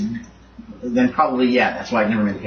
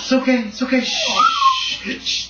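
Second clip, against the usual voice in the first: high-pitched soothing, then shushing; calm the dog in a high voice. Real, not acted. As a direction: hush an upset pet.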